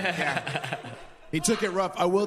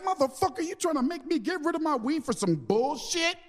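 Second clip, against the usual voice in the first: mock outraged; 10 semitones higher than usual. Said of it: "To which I was like".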